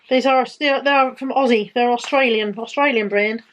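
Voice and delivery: a light, bad stab at an Australian accent; barely-there Australian accent, played for a joke; terrible Australian accent. Naming a stocking brand in a weak Australian accent. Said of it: "That's terrible Australian accent".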